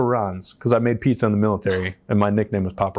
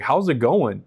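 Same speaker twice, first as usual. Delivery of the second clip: raised-pitch mock echo of a greeting; incredulous echo; 4 semitones higher, slower than usual. Rescued rowers answering their president's greeting, retold incredulity. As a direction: throw the question back in disbelief.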